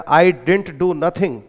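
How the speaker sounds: very slow, word by word; dialect example. Shown as a demonstration. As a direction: dictate each word slowly. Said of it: "dialect effect". (धीरे धीरे शब्द दर शब्द)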